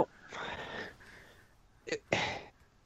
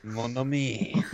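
put-on Creole accent; much slower than usual. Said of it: "Creole accent saying".

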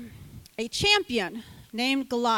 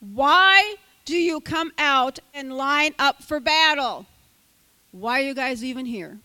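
loud mocking challenge; shouting taunt; 2 semitones higher, 6 dB louder than usual. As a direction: call out loud across the battle lines. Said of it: "Goliath stood and shouted".

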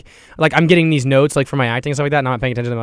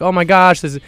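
higher, celebratory backstage cheer; excited cheering; 5 semitones higher than usual. Retold or imitated. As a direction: cheer like your team just scored. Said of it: "We're like".

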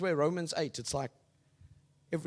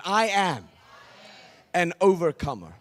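louder, firmer declaration; like you mean it; 2 semitones higher, 6 dB louder than usual. Shown as a demonstration. Preacher urging the crowd to mean it, louder. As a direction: say it with conviction. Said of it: "say it like you mean it".

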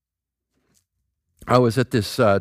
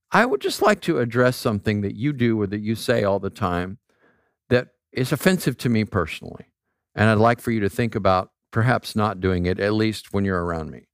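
acted gentle request, lower and even; gentle, concerned; 4 semitones lower than usual. Privately addressing a friend about their language, gentle and concerned. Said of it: "doing that in a gentle and concerned way".

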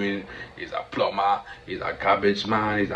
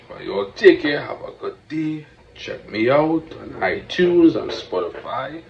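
higher, louder, slow hyped farewell; hyped podcast host signing off to his audience; 6 semitones higher, 9 dB louder, slower than usual. Real, not acted. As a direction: call out the goodbye like a host. Loud sign-off to listeners.

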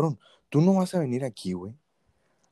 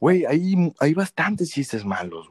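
loud emphatic agreement; 2 semitones higher, 6 dB louder, slower than usual. Real, not acted. Laughing agreement about bad jokes.

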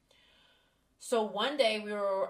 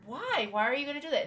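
much higher, pleading why; 7 semitones higher, 4 dB louder, much faster than usual. Retold or imitated. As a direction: ask why, high and desperate. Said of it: "and I'm like".

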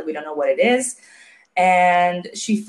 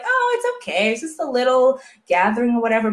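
careless dismissive; 4 semitones higher, faster than usual. Retold or imitated. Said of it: "They are like".

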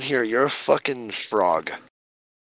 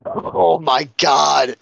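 drawn out; 3 semitones higher, much slower than usual. Real, not acted. Drawn-out exasperated reaction.

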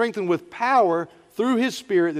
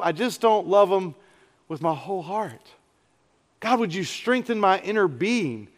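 earnest prayer. Shown as a demonstration. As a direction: pray it as if alone before God. Models a heartfelt prayer aloud.

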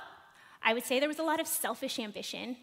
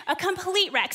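laughing emphasis; 5 semitones higher, 4 dB louder than usual. Real, not acted. Mom laughs at herself as rookie parent: laughing repeat.

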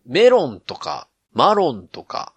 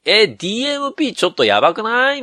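gal voice; 7 semitones higher than usual. Pretend. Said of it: "急にギャル現れたぞ".

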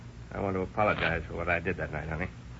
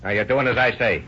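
louder, hard threatening command; angry order; 3 semitones higher, 5 dB louder than usual. Acted. Husband threatening his wife, loud angry order. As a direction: lay down the law to her, loud.

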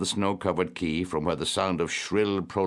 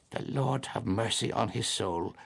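higher, gently pitying blessing; compassionate; 5 semitones higher, 4 dB quieter than usual. A narrator's reading. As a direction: murmur a pitying little prayer. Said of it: "said Aunt Kate compassionately".

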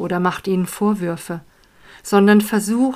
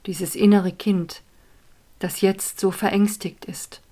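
whisper; 5 dB quieter than usual. Acted. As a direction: hush it like a secret. Whispered meditation guidance.

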